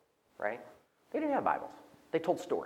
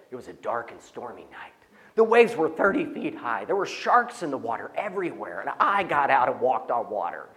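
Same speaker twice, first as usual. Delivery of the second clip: fisherman's tall tale; 2 semitones lower, 4 dB louder than usual. Retold or imitated. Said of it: "so it went like this".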